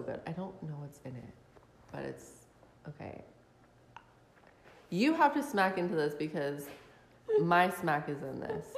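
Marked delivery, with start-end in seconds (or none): 4.9-8.7 talking while chewing; words around a mouthful of food; mouth full. Real, not acted. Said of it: "With my mouth full".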